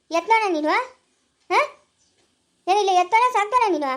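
heated, indignant challenge; outraged. Acted. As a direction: confront someone who dared to hit. Outraged after being hit.

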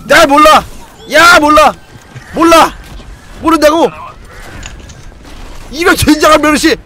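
loud high frantic yelling; panicked shouting. Real, not acted. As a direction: shout in a frenzy. Panicked shouting during a teamfight. (다급하게 소리치기)

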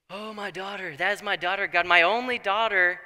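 rising from a groan to an anguished cry. Retold or imitated. Jephthah grieving over his only daughter, building to loud anguish. Father realises his vow.

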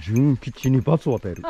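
put-on wise old hermit. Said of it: "仙人".

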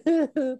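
high pretend sobbing; mock crying. Shown as a demonstration. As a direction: fake a short high boohoo. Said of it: "cry here doesn't mean".

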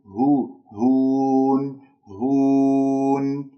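long هون with pure oral u; waw without ghunna. Shown as a demonstration. Teacher shows no nasality in waw, slow sustained recitation. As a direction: sustain هون out of the nose until the final n. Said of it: "لا يوجد فيها غنة الواو".

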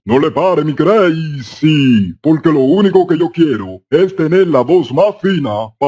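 lightly hammed-up hoarse man. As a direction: plead huskily, stretching the nickname. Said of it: "yo tengo la voz ronca".

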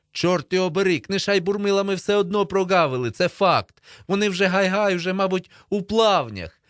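high, loud frustrated complaint; exasperated outburst. A narrator's reading. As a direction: raise the voice in exasperation. Boy frustrated, calling lost friend.

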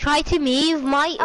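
put-on British instruction; British accent. Telling the teammate to move, British accent. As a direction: direct them in a British accent.

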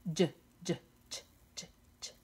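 "Ye" as short, soft, separate bursts; "Ye" chopped into tiny consonant puffs; isolated letter sound. Shown as a demonstration. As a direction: sound out "Ye" alone, quick and repeated. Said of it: "¿Cómo suena la ye?".

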